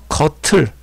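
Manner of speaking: "거틀" said slowly with aspirated t; linked t sound. Shown as a demonstration. Teacher showing how to read it, "거틀" slowly with t. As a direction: spell out "거틀" slowly as geoteul. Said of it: "이렇게 읽어야 됩니다".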